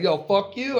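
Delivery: retold cursing. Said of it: "And they're like".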